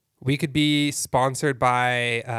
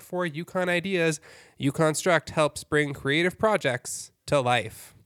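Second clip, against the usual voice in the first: upbeat radio sponsor read; 3 semitones higher than usual. Pretend. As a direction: give it your best ad voice, with lifted phrase endings. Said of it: "ad voice that I could do".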